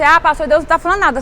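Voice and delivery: quick mock complaint to the pastor; voiced objection. Church member objecting to the pastor, quickly voiced.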